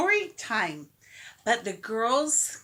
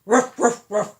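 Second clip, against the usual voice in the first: barking; 4 semitones lower, 4 dB louder than usual. Shown as a demonstration. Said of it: "Join in with this barking".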